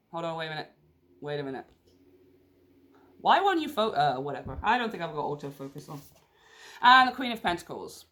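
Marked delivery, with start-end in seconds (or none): none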